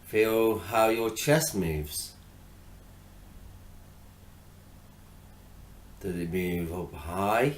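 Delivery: measured, spacious meditation coaching; guided meditation. Acted. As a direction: gently guide attention to the breath, unhurried. Leads a breathing meditation.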